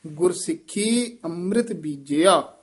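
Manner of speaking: ਗੁਰ ਸਿੱਖੀ ਅੰਮ੍ਰਿਤ ਬੀਜਿਆ, resting after ਬੀਜਿਆ; full pause after ਬੀਜਿਆ. Shown as a demonstration. Teacher showing the resting point, pause after ਬੀਜਿਆ. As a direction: come to rest on ਬੀਜਿਆ. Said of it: "ਇੱਥੇ ਵਿਸਰਾਮ ਹੈ".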